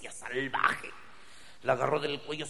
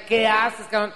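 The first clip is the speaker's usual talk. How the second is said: louder, higher confrontational shout; angry challenge; 10 semitones higher, 9 dB louder than usual. Acted. Returning guy catching his buddy with his girl, angry. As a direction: catch your friend with your girl.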